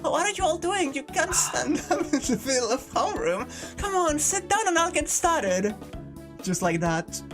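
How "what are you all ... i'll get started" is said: higher bossy teacher voice; cheerful teacher. Acted. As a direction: hurry the class along brightly. Teacher voiced in visual novel.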